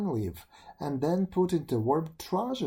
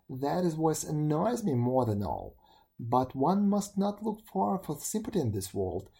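grumbling beetle. Acted. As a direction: rant like a wronged beetle. Beetle rants about the world.

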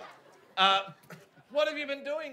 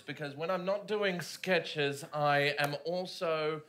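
slow guru voice, lower and deliberate; self-help guru; 5 semitones lower, 3 dB louder, slower than usual. Acted. Ben as a self-help guru promising to face fears, slow and low. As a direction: preach it like a life coach. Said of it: "I am also a self-help guru".

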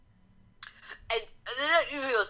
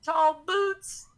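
rising higher and louder to a scream; building to a shriek; 8 semitones higher than usual. Acted. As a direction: start steady, end in a shrieking cry. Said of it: "That was pretty loud and scary".

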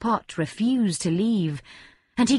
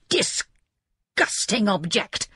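cry; much slower than usual. A narrator's reading. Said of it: "he cried".

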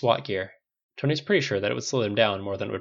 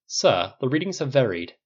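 lightly voiced AI butler; 3 semitones higher, 4 dB louder than usual. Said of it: "Jarvis said".

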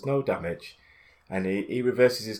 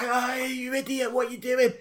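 put-on high Irish old lady scolding, pitched well up; 14 semitones higher than usual. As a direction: nag like an angry little Irish granny. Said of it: "Irish accent".

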